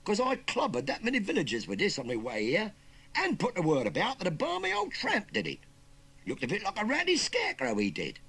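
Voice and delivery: loud, high Cockney threat; cocky warning. Acted. Youngster warning uncle against escaping, cocky. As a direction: warn him off, brash and loud. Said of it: "warned the cocky youngster".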